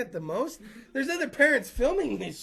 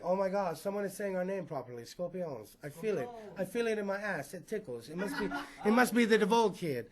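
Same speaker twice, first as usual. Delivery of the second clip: dreamy hushed singer; 2 semitones lower, 6 dB quieter than usual. Pretend. Lead singer voiced dreamily.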